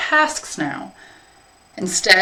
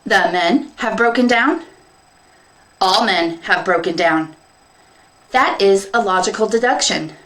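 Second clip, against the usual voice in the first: robot dialogue; 2 semitones higher than usual. Acted. Field minder and penner concluding the men are gone. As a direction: reason it out coldly, like robots.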